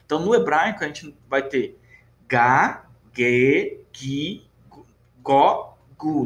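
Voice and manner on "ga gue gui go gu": Ga, Ge, Gi, Go, Gu, each with a hard G as in gato; hard G syllables. Shown as a demonstration. Teacher lists the Hebrew syllables, hard G on Ga, Ge, Gi, Go, Gu. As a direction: drill Ga, Ge, Gi, Go, Gu one by one, dry hard G. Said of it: "ele tem esse som bem seco".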